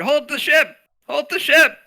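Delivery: high, urgent shout. Pretend. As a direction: yell it up high to the crew. Calling out to the crew.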